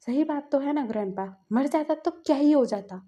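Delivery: mild mock anger, rising at the end; a sulky, defiant retort; angry. Wing answers grandpa back in mild imitated anger. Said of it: "बोलता है गुस्से में".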